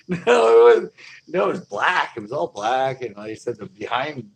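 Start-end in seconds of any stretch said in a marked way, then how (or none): 0.1-3.0 alarmed protest. Retold or imitated. Refusing the drunk friend.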